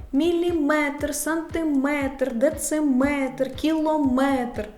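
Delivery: повільно тягни МЕТР: «Міліметр, сантиметр»; розмірений перелік «дециметр, кілометр» із наголошеним МЕТР; наголос на МЕТР. Shown as a demonstration. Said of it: "Слова з наголосом на метр". (виділяй останній склад у «кілометр»)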